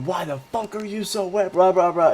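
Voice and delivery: high-pitched mock yell of a startled friend; mock scream. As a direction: squeal it like a buddy shocked by a wet hug. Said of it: "And he starts screaming".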